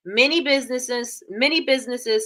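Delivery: talking with something in mouth; words around a mouthful; mouth full. Real, not acted. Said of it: "sorry, I got my thing in my mouth".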